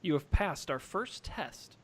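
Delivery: loud "Aha!" then slow and hushed; grand wizard reveal. Acted. Revealing himself as real wizard.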